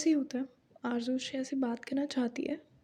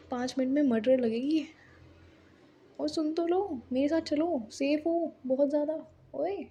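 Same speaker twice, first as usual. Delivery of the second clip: retold yelling; 3 semitones higher than usual. Tanvi yells after the car carrying Mahi away, in a mock yell. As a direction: shout after the departing car, half-joking. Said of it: "Tanvi चिल्ला रही थी पीछे से".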